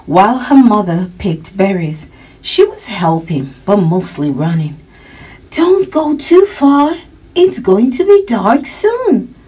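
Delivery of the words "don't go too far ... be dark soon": mother's high calling voice. A narrator's reading. Mother warning her running girl not to stray, calling out. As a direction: call out high and drawn-out to a child. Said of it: "her mother called".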